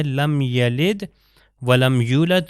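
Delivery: لم یلد ولم یولد slow, loud and careful; slow recitation. Shown as a demonstration. Teacher models the next verse slowly. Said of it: "اگلی آیت پہ چلتے ہیں".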